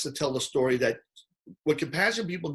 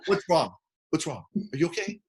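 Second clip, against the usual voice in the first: mock concern. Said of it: "in the middle of the rant".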